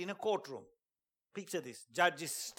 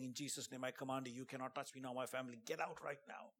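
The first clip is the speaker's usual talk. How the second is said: softer, hushed command in Jesus' name; quiet inner prayer; 3 semitones lower, 8 dB quieter than usual. Retold or imitated. Commanding the commander silently inside himself, hushed. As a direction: pray it under the breath, firm but hushed. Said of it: "Not loud, but inside me".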